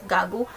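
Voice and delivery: GAGO with voiced g in both syllables; wrong hard G. Shown as a demonstration. Teacher quizzes learners on romanization, GAGO with hard g. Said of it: "Very wrong".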